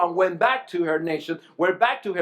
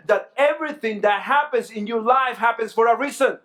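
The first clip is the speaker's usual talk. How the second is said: emphatic preaching; 3 semitones higher than usual. Real, not acted. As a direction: preach it with rising conviction. Preacher drives home the main point.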